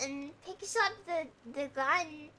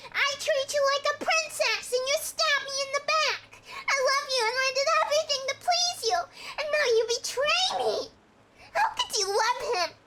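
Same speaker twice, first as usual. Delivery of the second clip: high, louder wounded ranting; betrayed rant; 8 semitones higher, 4 dB louder than usual. Acted. Betrayed husband ranting at his girlfriend, high and loud. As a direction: pour out the betrayal, rushing the middle.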